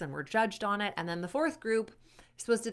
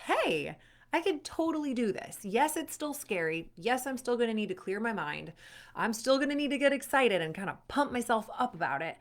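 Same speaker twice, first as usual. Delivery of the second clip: dawning confidence; 3 semitones higher than usual. Acted. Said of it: "and you're like".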